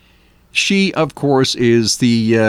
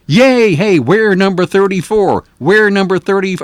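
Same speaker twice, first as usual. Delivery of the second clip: higher, louder hammed-up fake celebration; mock cheer; 7 semitones higher, 5 dB louder than usual. Host mocking fans celebrating thirty-fourth place, hammed-up cheer. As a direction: cheer it like a sarcastic fan. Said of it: "It doesn't really sound all too good".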